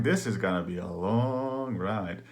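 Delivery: slow, stretched retold thought; drawn-out dread. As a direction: drag out the word long in mild dread. Dreading hours more of jolting.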